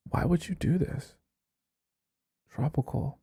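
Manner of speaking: very soft, pained disbelief; hushed, disappointed plea; quiet dismay. Real, not acted. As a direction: ask it softly, as if let down. Dismayed aside to the letter writer.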